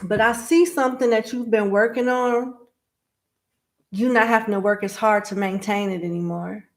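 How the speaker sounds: lisping through retainers; talking with retainers in. Real, not acted. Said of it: "excuse the lisp, I have my retainers in".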